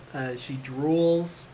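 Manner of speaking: slow, drawn out through a yawn. Real, not acted. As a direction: say it mid-yawn. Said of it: "Second yawn".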